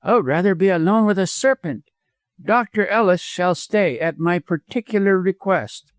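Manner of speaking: high, indignant widow; disgusted. A narrator's reading. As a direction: refuse him with disgust. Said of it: "in tones of disgust".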